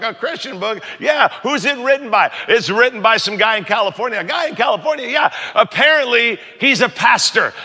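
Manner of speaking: high, animated gossip between two ladies; two ladies on a shuttle gossiping, mock shocked. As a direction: play both church ladies trading rumours. Two ladies gossiping about book.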